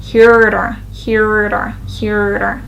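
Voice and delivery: "heater", here and to run into one word; linked words. Shown as a demonstration. Teacher showing two words becoming one, linked "heater". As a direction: blend "here to" into HEATER, repeated as a drill. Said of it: "here too became one".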